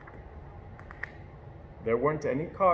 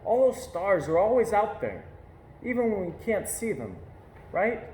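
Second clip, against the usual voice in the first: put-on child voice; 5 semitones higher than usual. A narrator's reading. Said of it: "I said".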